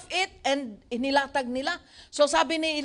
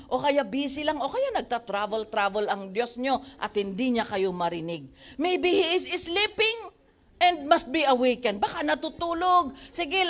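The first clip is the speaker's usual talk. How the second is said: taunting; 3 semitones higher than usual. Acted. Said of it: "Pang-inis din ang Elijah".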